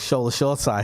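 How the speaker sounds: "Shore Tyre", just like shore plus tyre; "Shore Tyre" as two plain English words; player's own pronunciation. Retold or imitated. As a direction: say "Tyre" like a car tyre. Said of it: "he knows how to pronounce his own name".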